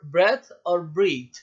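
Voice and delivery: ब्रेथ with short e, ब्रीथ with long ee; teacher clearly setting ब्रेथ against ब्रीथ; pronunciation demo. Shown as a demonstration. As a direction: contrast the vowels in ब्रेथ and ब्रीथ. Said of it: "pronunciation देखें".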